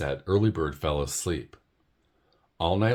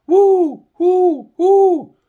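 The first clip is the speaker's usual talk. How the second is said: very high, loud hooted whoo; a bird trying to sound like an owl; 15 dB louder, much slower than usual. Acted. Early Bird showing Owl her hoot, very high. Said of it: "Let me try it again".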